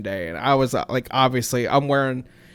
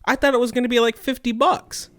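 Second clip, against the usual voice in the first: outraged disbelief; 10 semitones higher, 6 dB louder than usual. Real, not acted. Outraged over the huge charge.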